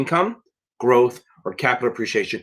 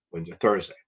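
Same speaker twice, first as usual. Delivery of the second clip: whispered correction; 6 semitones lower, 6 dB quieter, faster than usual. Real, not acted. Trailing self-correction.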